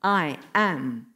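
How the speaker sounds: low, solemn "I am"; weighty declaration. Retold or imitated. Jesus hinting he is God, low and weighty. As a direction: drop the pitch and give both words weight. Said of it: "But at another level, he's saying".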